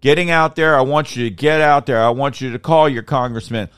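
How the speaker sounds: rallying call. Real, not acted. Calling Americans to act.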